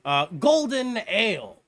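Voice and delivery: loud, hurried backpedalling little man; flustered Godric. Acted. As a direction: cave in quickly but keep some pride. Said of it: "And he's like".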